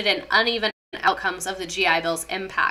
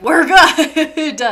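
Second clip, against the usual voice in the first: breezy dismissive we're good, pitched up and louder; mock carefree reassurance; mock casual brush-off; 6 semitones higher, 9 dB louder than usual. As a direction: toss off We're good high and loud like you couldn't care less. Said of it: "they'd be like".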